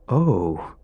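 bright sly "oh"; suddenly chipper. A narrator's reading. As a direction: switch to smug cheer. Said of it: "suddenly chipper".

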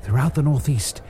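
lightly voiced pompous wizard; grand wizard voice. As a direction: proclaim it like an old wizard. Wizard's grand self-introduction.

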